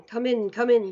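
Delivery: snapped. A narrator's reading. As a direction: snap them inside, losing patience. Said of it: "snapped the Grand High Witch".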